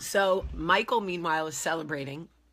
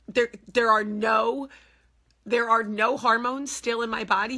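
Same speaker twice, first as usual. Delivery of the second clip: panicky disbelief; 6 semitones higher, 7 dB louder than usual. Retold or imitated. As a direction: ask in pitched-up alarm. Panicked question to doctor.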